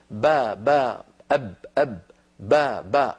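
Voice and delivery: repeated ba from the lips, spaced apart; Arabic sounds of ba. Shown as a demonstration. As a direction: sound out ba clearly, slowly. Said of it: "فيقولون مثلا". (نطق الباء بوضوح)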